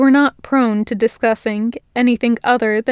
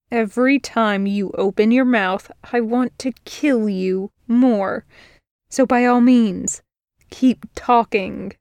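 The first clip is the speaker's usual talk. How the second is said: menacing sarcasm. Acted. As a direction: let the menace drip. Virgil's threat.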